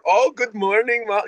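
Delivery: a high, sing-song try at Silke's accent, admittedly bad; imitating Silke's accent. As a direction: chirp the greeting the way Silke says it, accent and all. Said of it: "'cause I can't do the accent".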